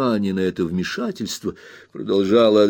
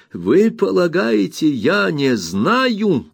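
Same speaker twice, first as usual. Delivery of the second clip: "Вы полагаете" flung out much higher and slower; indignant; 7 semitones higher, much slower than usual. Acted. Aunt Betsy repeats "Вы полагаете" at the brother, indignantly higher. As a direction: she hurls "Вы полагаете" up high, outraged. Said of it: "с негодованием тряся головой".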